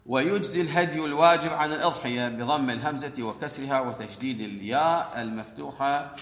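formal read-aloud of a legal text. Acted. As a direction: read the text out, carefully voweled. Reads the law text aloud.

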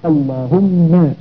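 slow "اللهم" held on a double m, then "ma"; stretched Allaahumm-ma for "اللهم"; doubled mim. Shown as a demonstration. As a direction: lean long on the final mim of "اللهم". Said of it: "ونأتي بميم مشدد في الآخر".

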